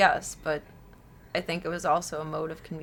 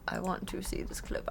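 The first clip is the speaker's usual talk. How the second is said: whispering; 10 dB quieter than usual. Real, not acted. Whispered repeat.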